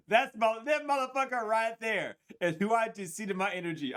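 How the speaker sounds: loud, high, shocked exclaim; shocked outburst. Real, not acted. Shocked by a presence in her energy, loud and high. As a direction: blurt it out, stunned. Shocked by what she saw.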